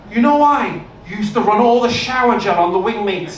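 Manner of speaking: a hint of Scouse in the ex-con brag; Liverpool accent. Ex-con bragging to the comic, lightly Scouse accent. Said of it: "I do the Liverpool accent".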